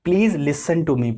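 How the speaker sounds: very slow, each word spaced out; slow example sentence. Shown as a demonstration. Teacher modelling an English phrase for learners, slowly. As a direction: spell the sentence out slowly for the class. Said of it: "teacher reads example sentence".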